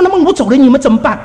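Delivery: high, pressing worry; anxious retold protest; retold worried question. Acted worried question to husband.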